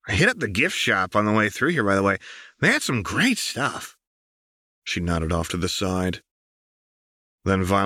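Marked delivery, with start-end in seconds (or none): 0.1-4.0 put-on bragging like a kid; playful Jinx.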